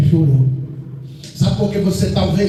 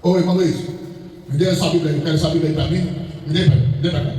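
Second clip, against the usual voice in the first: demanding request; 6 semitones lower, much faster than usual. Retold or imitated. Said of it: "eu pedi uma coisa pra alguém fazendo assim".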